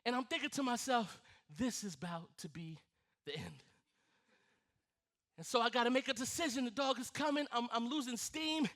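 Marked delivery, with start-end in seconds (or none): 1.6-3.6 doomed hush. Retold or imitated. Dreadful inner thought while chased.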